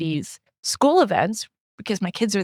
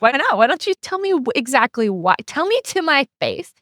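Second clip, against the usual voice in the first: higher, pushy mock confrontation; challenging retort; 6 semitones higher than usual. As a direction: dare them to say it to your face. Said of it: "And I'd be like".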